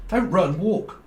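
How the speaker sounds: WALK lifted high at the end; quoting a song line. Shown as a demonstration. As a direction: punch "Don't run", then rise on "walk". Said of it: "Like a band".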